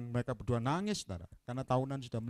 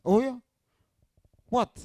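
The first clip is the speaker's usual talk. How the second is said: surprised; 8 semitones higher, 7 dB louder than usual. Retold or imitated. The couple's surprised reaction, retold.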